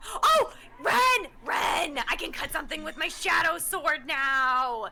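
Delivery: eager shout to a friend; excited calling out. Acted. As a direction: burst out with a sudden idea. Sudden idea, calling to Ren.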